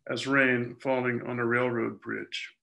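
measured reading of a poem; poetry reading. Acted. Poet reads a dream of their mother's death to listeners, measured poetry reading. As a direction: read it out in deliberate, phrased lines.

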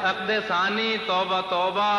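lilting Urdu verse delivery; poetry recitation. Acted. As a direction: recite the couplet to a listening crowd. Repeats verse line.

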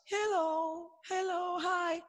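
put-on high, soft girlish greeting; teacher imitating girls' soft high voices; girl's voice. Shown as a demonstration. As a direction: imitate a little girl saying hello, high and soft. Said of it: "Even girls".

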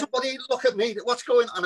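high, edgy mock panic; nervous character. Actor replaying his bag-of-nerves role for laughs, comically nervous. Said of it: "I made him totally nervous all the time".

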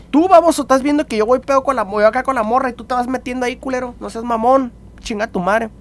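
high, heated mock rant; mock scolding. Teller scolds the friend who ruined it, mock heated. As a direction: tell him off, heated and high. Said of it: "Le digo, güey".

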